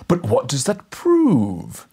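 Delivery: slow, hushed, silky whisper; gently persuasive. A narrator's reading. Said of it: "gently persuasive voice".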